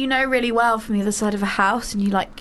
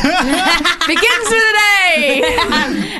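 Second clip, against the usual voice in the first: slow, drawn-out mock cheer; bored car game player; 6 semitones higher, 4 dB louder, much slower than usual. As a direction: stretch it like a tired game clue. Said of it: "when you're like".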